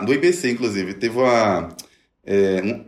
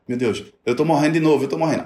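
higher, alarmed cry of fear in a mock panic; retold panic; 4 semitones higher, faster than usual. Man reliving a panic attack for the host, in alarmed retold fear. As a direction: relive the terror of thinking you're dying, pitched up.

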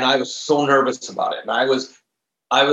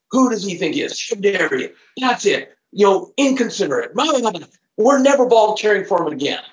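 higher-pitched mock rant, letting off steam; retold angry rant; 6 semitones higher than usual. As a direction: vent it in a huffy, raised voice. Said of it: "I just unload".

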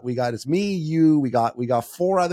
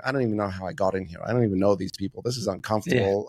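put-on sulky withdrawn kid. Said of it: "they're sitting at the back of the van going".

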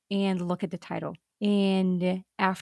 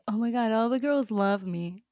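mock smug Arthur; 2 semitones higher than usual. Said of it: "He's like".

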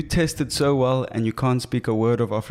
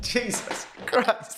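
exasperated whisper; 9 semitones higher, 5 dB quieter, much slower than usual. Real, not acted. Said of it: "I'm sorry".

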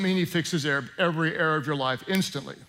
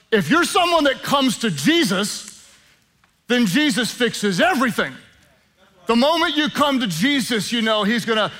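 raised, loud country preacher delivery; 5 semitones higher, 4 dB louder than usual. Acted. Pastor mimicking preachers who say Jesus fixes everything, country preacher voice. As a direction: put on a swooping country preacher voice. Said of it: "my country preacher voice".

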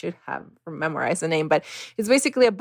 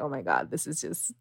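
a much softer, lower "I can't"; defeated murmur; 3 semitones lower, 8 dB quieter than usual. Retold or imitated. When a person cut her plants, a defeated murmur. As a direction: let it sink away in defeat. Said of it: "I'm just like".

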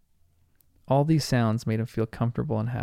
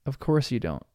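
comforting. Acted. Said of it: "said Charlotte in a comforting voice".

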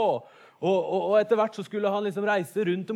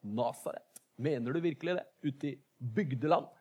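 sarcastic; 4 semitones lower than usual. Retold or imitated. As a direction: tease the backwater town with a doubtful sneer. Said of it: "sier han sarkastisk".

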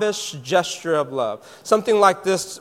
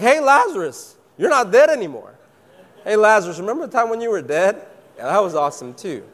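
teasing Simon; 3 semitones higher, 3 dB louder, faster than usual. Retold or imitated. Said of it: "Simon's like".

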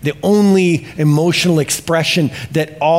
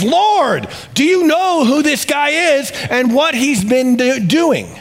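much higher, alarmed and disbelieving; freaking out; 9 semitones higher than usual. Retold or imitated. Ananias panics at the Lord's order, high and alarmed. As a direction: panic at the thought of meeting Saul. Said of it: "he freaks out".

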